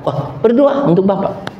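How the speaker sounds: mildly baffled retold reply; puzzled driver. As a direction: imitate a driver taken aback. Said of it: "Supirnya bingung kan".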